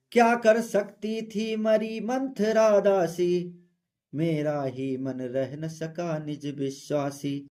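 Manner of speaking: slow, measured verse reading; poem recitation. Acted. Teacher reading Kaikeyi's verse to students, slow recitation. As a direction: recite it slowly, line by line.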